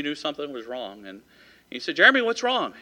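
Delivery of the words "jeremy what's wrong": higher, sudden concern for his friend; concerned surprise. Retold or imitated. Big friend asks the scared boy, higher and worried. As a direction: ask it quickly, surprised and worried.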